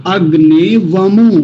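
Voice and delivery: अग्ने वमो said slowly as one flowing phrase, no gap; joined together. Shown as a demonstration. Teacher showing students how to join the words, slow and careful. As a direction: glide अग्ने straight into वमो. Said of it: "तो इन दोनों को कैसे मिला के बोलेंगे?".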